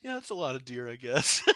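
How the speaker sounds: quiet quote. Retold or imitated. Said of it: "I forgot about that one".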